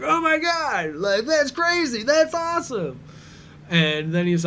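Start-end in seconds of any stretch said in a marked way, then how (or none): 0.0-3.0 high, loud mock squeal; hammed-up awestruck fanboy outburst; gushing excitement. Brother reacting to cousin's accent, squealing with excitement.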